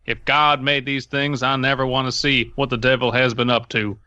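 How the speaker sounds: put-on a light Southern accent for the scared deputy. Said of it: "I always love your southern accent guy".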